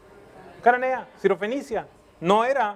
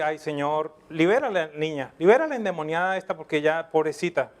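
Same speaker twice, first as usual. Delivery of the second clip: mock pious plea; 4 semitones lower than usual. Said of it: "los discípulos tan espirituales le van a pedir".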